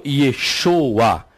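"Yeshoa" very slow, as ye-SHO-a; Eastern pronunciation. Shown as a demonstration. Teacher contrasting the Eastern form, "Yeshoa" slowly as ye-SHO-a. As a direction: stretch "Yeshoa" out, leaning on SHO. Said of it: "a pronúncia oriental da Peshita".

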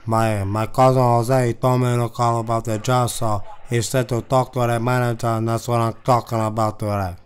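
put-on heavy Chicano accent, pushing harder; insistent caller in a thick put-on accent; put-on Latino accent. Prank caller demanding the manager, in heavy accent. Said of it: "that's too popular of a fucking accent".

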